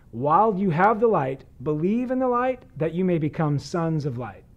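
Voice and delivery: measured, formal reading of the gospel; scripture reading. Acted. Pastor reading scripture to listeners, measured and formal. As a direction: read the passage aloud to the congregation.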